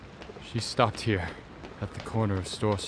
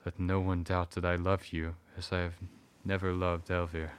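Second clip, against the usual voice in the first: leading man; 4 dB louder than usual. Acted. Husband declares love to wife.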